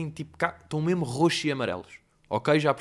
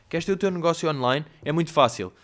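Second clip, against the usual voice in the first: online guru pitch; 4 dB louder than usual. Retold or imitated. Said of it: "aquelas simplificações que nunca são assim".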